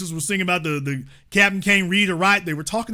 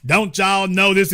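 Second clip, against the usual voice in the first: mock old-timer. Mocking the caller lecturing them, a put-on slow drawl. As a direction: ham up the condescending caller. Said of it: "He show up".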